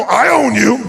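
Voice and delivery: a touch of a shout; mild challenge. Shown as a demonstration. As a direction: point and call it out. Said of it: "point and go".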